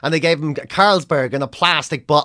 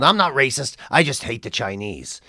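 much lower, gruff-edged Canadian comic voice, weary and done with everything; Mike Wilmot's Canadian accent; 5 semitones lower, 4 dB quieter than usual. Retold or imitated. A veteran Canadian comic sneering about a young act, in a low Canadian accent. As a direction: do the jaded old Canadian comedian. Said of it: "I'll do it in his accent".

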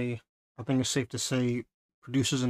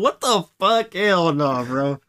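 shocked; 4 semitones higher, 8 dB louder, slower than usual. Retold or imitated. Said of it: "I was like".

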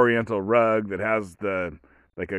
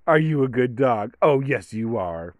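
put-on baby talk; 2 semitones higher, 4 dB louder than usual. Owner answering themselves for the dog, in baby talk. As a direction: ask the dog, then happily answer for it. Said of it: "that's the baby talk that everyone does".

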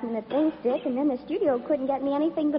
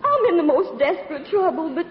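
Southern belle routine. Pretend. Actress angles for sympathy, pitiful Southern accent. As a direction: play the helpless Southern belle. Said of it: "my little old southern routine".

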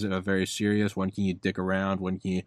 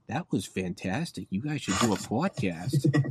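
put-on New York accent; slower than usual. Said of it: "in, like, her New York accent".

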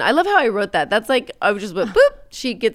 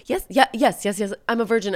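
quick, higher, overeager yeses; eager yes; 4 semitones higher than usual. Retold or imitated. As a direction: blurt it out to save yourself. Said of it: "Jennifer said".

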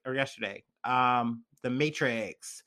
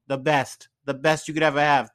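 light impression of a boastful politician; Donald Trump; 4 dB louder than usual. Podcaster praising the food, light Trump impression. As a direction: lay on the superlatives with a hint of that accent. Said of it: "getting my Trump accent out".

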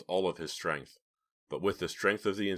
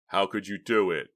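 accusing question; 2 semitones higher, 6 dB louder than usual. A narrator's reading. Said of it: "Alex asked".

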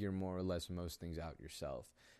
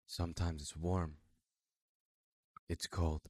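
robotic voice. Pretend. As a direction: read it like a detached machine. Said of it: "I'm gonna go back to that robotic voice".

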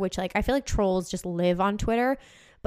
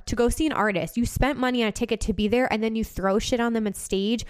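angry rant. Real, not acted. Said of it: "sorry, I just popped off".

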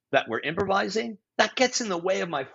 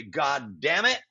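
usual speaking voice

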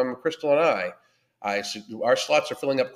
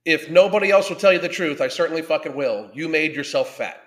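louder, hard-hitting truth-telling; blunt loud declaration; 2 semitones higher, 5 dB louder than usual. Real, not acted. Coach telling viewers the hard truth, loud and blunt. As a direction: lay it down like a harsh coach.

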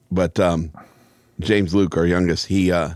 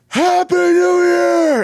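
high, long-held shout; loud, stretched-out party scream; celebratory yell; 5 dB louder, much slower than usual. Retold or imitated. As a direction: holler it out to the whole street. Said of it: "And I yell".

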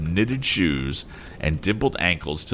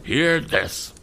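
higher, helpless cry to the heavens; helpless exclamation; 10 semitones higher than usual. A narrator's reading. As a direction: appeal to the elements in despair. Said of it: "he helplessly exclaimed".

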